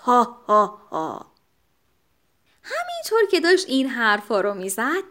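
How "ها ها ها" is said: low chuckle. A narrator's reading. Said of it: "آهسته گفت".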